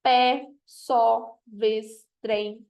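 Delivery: each word on its own, paused between; one syllable each. Shown as a demonstration. Teacher listing monosyllables, each said as one separate beat. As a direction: say pé, só, vez, trem as separate single beats. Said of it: "Só lei uma vez".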